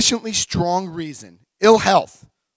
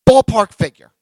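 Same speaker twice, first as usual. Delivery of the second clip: casual ask; 6 semitones higher, 9 dB louder than usual. Retold or imitated. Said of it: "I was like".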